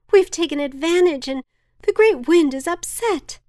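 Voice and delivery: high, loud warning; fearful shout. A narrator's reading. Villager warns the gathered village, high loud alarm. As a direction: cry out that the wind is angry. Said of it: "shouted one of the villagers".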